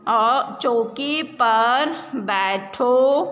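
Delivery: slow, chanted reading with repeats; sing-song reading. Shown as a demonstration. Teacher chanting a reading line for pupils. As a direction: chant it slowly so children repeat. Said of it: "reading drill with the class".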